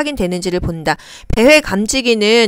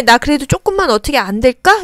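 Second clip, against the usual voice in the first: pleading; 4 semitones higher than usual. Acted. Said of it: "이런 마음이에요".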